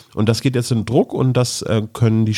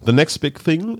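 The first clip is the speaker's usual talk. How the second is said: hushed, breathy teaser, pitched up; dramatic announcement; 6 semitones higher than usual. Pretend. Podcast host teasing the next topic to listeners, mock dramatic whisper. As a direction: whisper it like a movie trailer.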